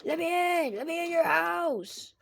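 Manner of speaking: high, loud eerie begging; creepy pleading monster. Acted. Bonnie begging at Michael's door in a high eerie voice. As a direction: whine to be let in like a monster.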